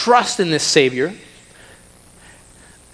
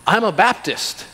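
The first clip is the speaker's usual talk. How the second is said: lightly mocking, a bit higher, proud Baptist; self-satisfied churchgoer; 4 semitones higher than usual. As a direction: play a smug believer lightly. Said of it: "you can get more refined".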